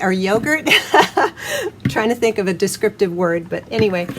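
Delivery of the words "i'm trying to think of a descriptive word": laughing. Real, not acted. Laughs at her own fumbling.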